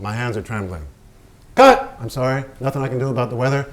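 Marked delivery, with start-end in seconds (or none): 1.6-2.0 yelled cut, high and loud; furious director yelling cut; director's shout. Acted. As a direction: bark the cut across the set. Director shouting on film set.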